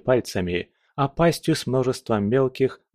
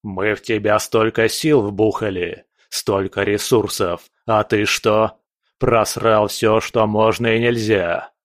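angry overlord berating; dark lord rant; 4 dB louder than usual. Acted. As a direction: scold the servant harshly. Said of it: "Владыка заревел".

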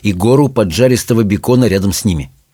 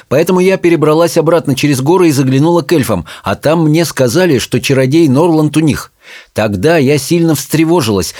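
lightly voiced witch, higher in pitch; hint of a raised character voice; enterprising witch mother; 4 semitones higher than usual. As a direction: recount the journey as a purposeful mother.

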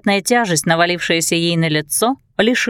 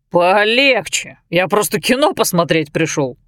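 put-on town drunk. Drunk Fred voiced.

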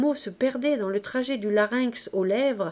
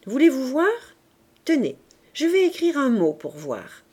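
put-on eager girl; 4 semitones higher, 4 dB louder than usual. Éponine eager to show Marius.

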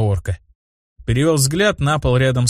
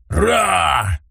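медвежий рык; 5 semitones higher than usual. A narrator's reading. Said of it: "зарычал мне в лицо огромный бурый медведь".

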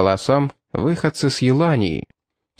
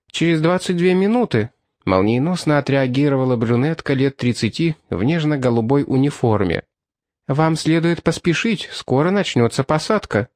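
woman cashier voice; 2 semitones higher than usual. Acted.

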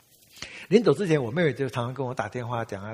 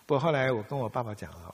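ordinary talk, nothing marked

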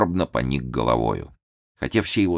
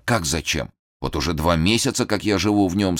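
ordinary delivery

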